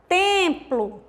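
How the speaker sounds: "Templo" with TEM stressed, TEM-plo; teacher's example, TEMplo; stress on penultimate syllable. Shown as a demonstration. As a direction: lean on the first syllable of "Templo". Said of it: "a tônica é a penúltima sílaba".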